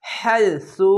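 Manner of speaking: "হাইসু" with breath pushed out on the হা; airy ha. Shown as a demonstration. Teacher demonstrating "হাইসু" to learners, airy হা, long syllables. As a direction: let air out as you begin "হাইসু". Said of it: "এই হা উচ্চারণটি বাতাস বের হবে".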